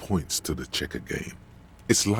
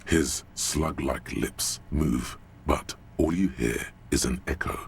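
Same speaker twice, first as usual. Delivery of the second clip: game narration; 3 semitones lower than usual. A narrator's reading. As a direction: narrate it with dry menace.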